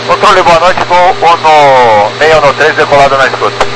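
crackly pilot radio call; crackly military radio. Real, not acted. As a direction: call it in over a noisy radio. Pilot calling control over radio.

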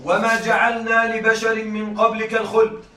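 slow, measured recitation of the verse; Quran recitation. Shown as a demonstration. Teacher reciting a verse to students, slow and measured. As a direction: recite it slowly and reverently. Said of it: "قال تعالى".

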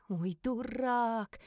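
slow, drawn-out whisper; exasperated whisper. Acted. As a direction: breathe it out, shaking your head. Inner thought about the fool. (медленный досадливый шёпот)

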